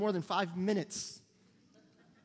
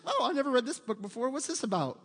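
lightly acted teenage discovery; higher, mildly intrigued opening that settles down; retold curiosity; 4 semitones higher than usual. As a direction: play a teen pleasantly surprised by a find. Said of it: "I was like".

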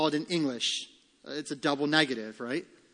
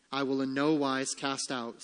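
calm, settled answer; Christ's reassurance; 2 semitones lower, 3 dB quieter than usual. Acted. Preacher voicing Christ's answer to Satan's servant, calm reassurance. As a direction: answer evenly, under the protest. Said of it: "says Christ".

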